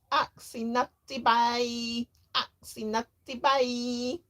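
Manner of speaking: put-on high, loud little-boy wail; toddler scream. A narrator's reading. Toddler screaming at his big brother. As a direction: wail it like a two-year-old. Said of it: "screamed little James".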